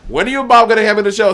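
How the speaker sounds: high, fast pushy ask; imitating Bianca again. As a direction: rattle off the same nagging request. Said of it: "like clockwork".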